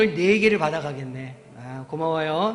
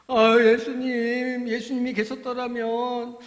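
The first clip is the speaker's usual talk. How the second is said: slow, higher, grieving plea; a touch of tears, drawn out; tearful Mary; 5 semitones higher, slower than usual. Acted. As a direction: lament to Jesus as the weeping sister. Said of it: "막 마리아가 울었어요".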